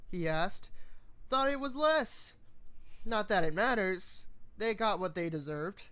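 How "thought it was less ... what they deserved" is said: casual shrug in the voice; tossed off with a shrug; shrugging, offhand. Acted. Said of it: "he said with a shrug".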